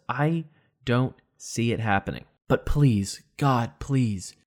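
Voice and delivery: ordinary talk, nothing marked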